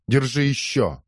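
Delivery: voiced high, hitting her again; high taunting shout. A narrator's reading. Wife taunts her husband's mistress while slapping her, high jeer. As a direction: jeer as you strike.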